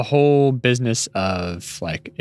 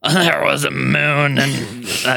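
Susan Sarandon reading; 4 semitones higher, slower than usual. Retold or imitated. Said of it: "What did it sound like when she did it?".

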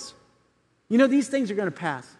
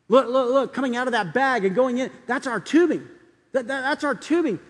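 excited recognition; 4 semitones higher than usual. Retold or imitated. Surgery watcher recognises their tubing.

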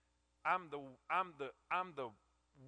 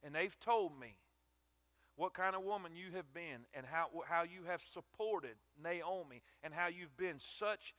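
tender praise. Acted. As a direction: speak to her with gentle gratitude. Boaz praises Ruth tenderly.

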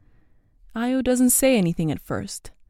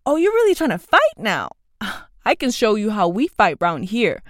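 taunting; 5 dB louder than usual. A narrator's reading. Bully squaring up for a fight.

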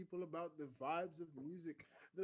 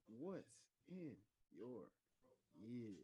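announcer segment title; 4 semitones lower, 12 dB quieter, much slower than usual. Acted. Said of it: "go ahead and say".

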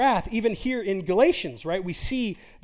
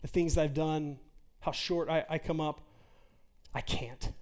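shame's lie whispering you can't measure up; 2 semitones lower, 6 dB quieter than usual. Acted. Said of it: "That lie that says".

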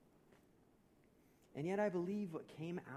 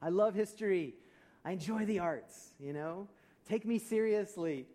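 mock defensive protest, higher and louder; 4 semitones higher, 4 dB louder than usual. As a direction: insist on your credentials, acting wounded pride. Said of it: "I start to get defensive and say".

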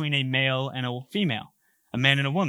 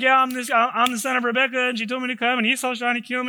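high-pitched, hammed-up tearful blurting; mock weeping; 5 semitones higher than usual. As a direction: blurt it out like a weepy mess, jokingly. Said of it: "He starts weeping out loud".

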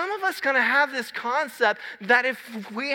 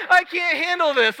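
retold scream; 7 semitones higher, 4 dB louder than usual. Son screaming to dad on the roller coaster, a high loud wail. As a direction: wail it out like a terrified kid on a ride. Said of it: "and he screams".

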